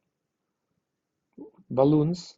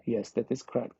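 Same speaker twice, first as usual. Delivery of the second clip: ordinary talk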